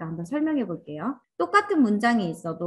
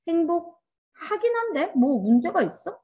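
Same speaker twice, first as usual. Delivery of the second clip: dismissive reading; 7 semitones higher, slower than usual. Retold or imitated. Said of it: "이렇게 읽는 거예요".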